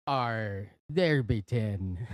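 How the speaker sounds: slow, growly pirate. Acted. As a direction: say it like an old sea pirate. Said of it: "we have to do that joke in a pirate voice".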